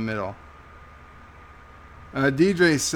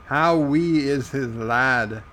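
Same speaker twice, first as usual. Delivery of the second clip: slow, lightly Irish lilt; slight Irish accent; slower than usual. Acted. Host reading a viewer's question, slipping into Irish accent. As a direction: read it with a hint of Irish. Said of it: "you're making me speak with an Irish accent".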